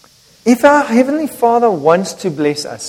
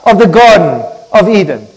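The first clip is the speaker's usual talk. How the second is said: loud, high-pitched booming warning, slowed down; stern threat; 7 semitones higher, 8 dB louder than usual. Acted. Preacher voicing to the church what God did not say, stern threat.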